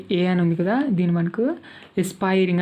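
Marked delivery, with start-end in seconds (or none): 2.0-2.6 ఎస్పైరింగ్ as "es-PIE-ring"; pronunciation demo. Shown as a demonstration. Teacher correcting how the word is read, ఎస్పైరింగ్ as "es-PIE-ring". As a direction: say ఎస్పైరింగ్ for learners with an "es" opening and long "pie". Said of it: "అని పలకాలి".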